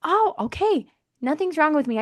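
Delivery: put-on a teen letting the fear go; relieved teen. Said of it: "then they go".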